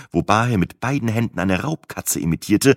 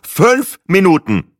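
loud, high, slow snort of impatience; 12 semitones higher, 8 dB louder, slower than usual. A narrator's reading. Guest cuts in on farmer's wife, impatient snort. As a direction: snort it out word by word. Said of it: "schnaubte ich".

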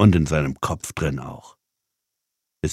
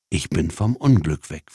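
subdued repetition. Acted. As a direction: repeat it to yourself, subdued. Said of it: "wiederholte sie".

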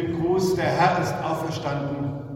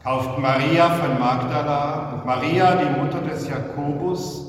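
solemn gospel reading. Real, not acted. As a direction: read scripture aloud to a congregation, unhurried and clear. Reads the Easter gospel.

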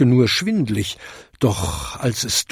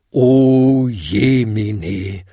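very slow, drawn-out dismay; horrified; 4 dB louder, much slower than usual. A narrator's reading. Other bells react to the inscription, horrified. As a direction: wail it like tolling bells, mildly. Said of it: "läuteten die anderen Glocken entsetzt".

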